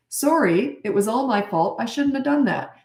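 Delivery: mean every word of the sorry; sincere apology. Shown as a demonstration. Showing kids a real apology, earnest and sincere. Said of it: "It should just be the start".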